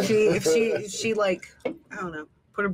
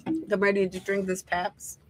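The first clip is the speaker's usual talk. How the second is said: chewing sticky toffee. Real, not acted. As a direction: mouth full of candy. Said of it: "Why are you chewing on it?".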